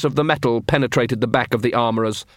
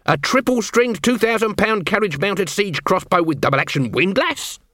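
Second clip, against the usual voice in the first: higher voice, ending in a question; nervous armourer; 7 semitones higher than usual. Acted. Armourer answering Nobby's question about the crossbow, uncertain. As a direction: reel off the technical name, unsure at the end.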